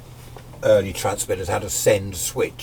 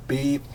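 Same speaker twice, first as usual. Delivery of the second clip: time signal beep; 5 semitones higher than usual. Shown as a demonstration. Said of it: "how does the noise go?".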